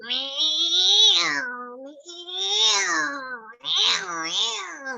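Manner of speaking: high, loud, stretched yowling meows; a cat spoiling for a fight. Shown as a demonstration. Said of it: "kucing yang berantem". (kucing berantem mengeong keras)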